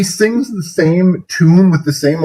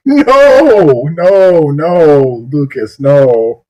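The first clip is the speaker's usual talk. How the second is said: laughing protest; 2 semitones higher, much slower than usual. Real, not acted. Cringing, begging the singer to stop.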